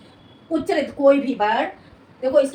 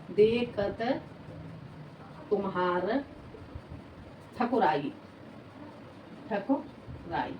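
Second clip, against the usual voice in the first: slow, word by word, for writing down; spaced-out dictation with pauses between words; 3 semitones lower, 9 dB quieter, slower than usual. Shown as a demonstration. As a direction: dictate each word slowly so students can copy it. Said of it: "ऐसे लिख लो".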